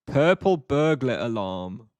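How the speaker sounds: slow, careful tongue-twister delivery. Shown as a demonstration. Streamer attempting a tongue twister for chat, slow and careful. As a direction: take the tricky words slowly, one by one. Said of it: "They have tongue twisters in English".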